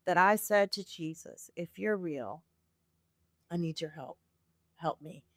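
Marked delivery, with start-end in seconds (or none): 1.6-5.2 soft, low plea with pauses; retold plea. Woman retelling her plea to Jesus in intense pain, softly pleading. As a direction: quietly imitate a heartfelt prayer.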